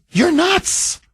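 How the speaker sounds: mock blunt verdict, pitched high; blunt grown-up. Host voices the sane grown-up, high mock verdict. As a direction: play the grown-up telling him he's nuts. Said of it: "Where's the one that says".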